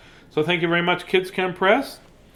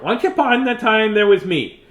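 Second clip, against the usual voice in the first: cat's voice; 7 semitones higher, 5 dB louder than usual. Pretend. Reading what the cat wrote.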